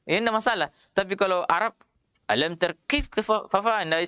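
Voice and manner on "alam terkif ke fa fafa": rushed wrong reading. Shown as a demonstration. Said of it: "tidak boleh begitu".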